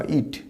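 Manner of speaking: short i in "ইট", soft; short vowel. Shown as a demonstration. Teacher repeating the pronoun, short i. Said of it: "হস্য ইট".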